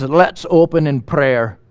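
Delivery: lightly put-on Scottish accent, slow; a slow, mild imitation of a Scottish preacher. Young preacher near Glasgow opening in prayer, light Scottish accent. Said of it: "do the rest of it in the Scottish accent".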